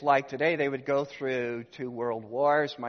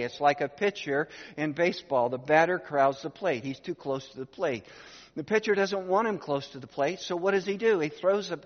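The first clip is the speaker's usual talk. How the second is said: rising excitement; 4 semitones higher, 4 dB louder than usual. Real, not acted. Building a baseball illustration.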